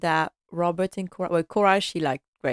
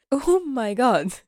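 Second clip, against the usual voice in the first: slow, high, shocked "oh my God"; shocked gasp; 5 semitones higher, slower than usual. Retold or imitated. Wife reacting to husband's praise, shocked. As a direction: gasp it out in disbelief. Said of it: "she's shocked".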